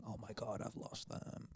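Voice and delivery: very hushed, frightened, breathy whisper. Retelling finding the games gone from the bag: imitating own scared past self. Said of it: "getting so scared and going".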